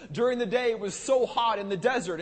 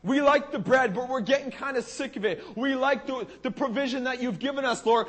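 mocking whine; 2 semitones higher than usual. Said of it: "they were mocking God".

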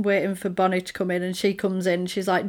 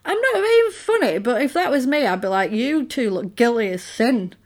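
a hint of scandalised viewer; exasperated retort; 3 semitones higher, 3 dB louder than usual. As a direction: call them out, mock-outraged. Her own imagined retort.

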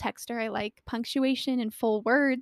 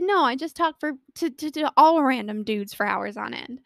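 sarcastic retort; 3 semitones higher, 4 dB louder than usual. Retold or imitated. Her sarcastic retort, acted out.

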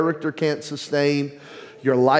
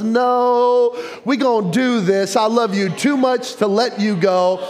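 voice of God; 5 semitones higher than usual. Acted. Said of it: "And God goes".

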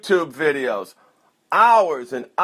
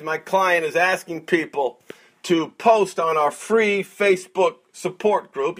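ordinary delivery

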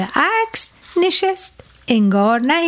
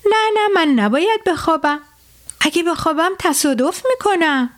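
higher alarmed driver; startled; 5 semitones higher than usual. Acted. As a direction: jolt awake in alarm. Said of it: "یک دفعه از خواب پرید و گفت". (راننده از خواب پریده، هراسان)

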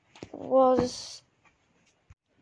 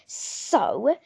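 snapped; 4 dB louder than usual. Acted. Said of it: "snapped Missus Dursley".

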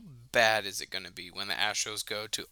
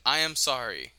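flat, louder read-out apology; deadpan Dwight apology; 6 dB louder than usual. Pretend. Imitating Dwight's meme apology, loud deadpan read. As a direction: recite it like a forced statement. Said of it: "meme of Dwight where he reads the statement".

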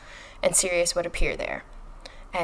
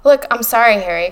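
raised voice, pitched up on the opening; crying out; 3 semitones higher, 7 dB louder than usual. A narrator's reading. Hermione objecting to Harry's plan, crying out. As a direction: exclaim it as a loud, exasperated apology. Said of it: "cried Hermione".

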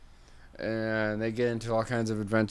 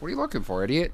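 snarky bird; 8 semitones higher, much faster than usual. Acted. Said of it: "the bird's like".

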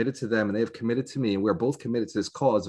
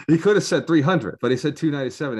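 incredulous; 7 semitones higher, 7 dB louder than usual. Real, not acted. Amused disbelief at the price.

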